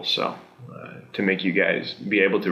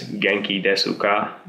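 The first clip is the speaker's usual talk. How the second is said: as written, slowly. Shown as a demonstration. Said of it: "you write it like this".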